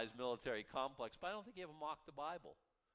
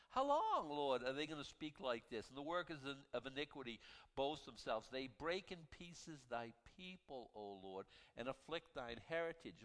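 scripture reading. Acted. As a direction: lift the first words, then settle into the verse. Reads psalm aloud.

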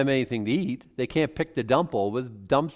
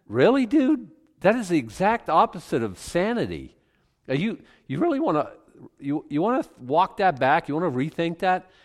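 incredulous retort; 5 semitones higher than usual. Retold or imitated. Retold retort to mocking man.

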